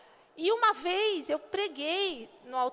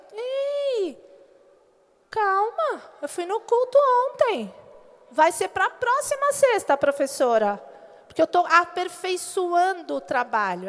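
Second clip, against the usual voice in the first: mock pleading student asking for more time; student excuse; 5 dB louder than usual. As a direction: sell the excuse to the teacher. Student excusing late work to teacher.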